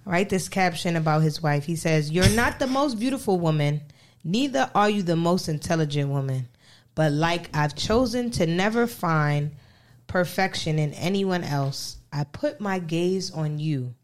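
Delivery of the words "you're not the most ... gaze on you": mock heartfelt reading. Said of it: "Stop reading it like that".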